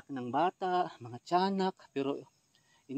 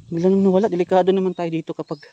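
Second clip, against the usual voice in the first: hyperventilating; 3 semitones higher, 10 dB louder than usual. Real, not acted. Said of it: "hinihingal ako mga idol".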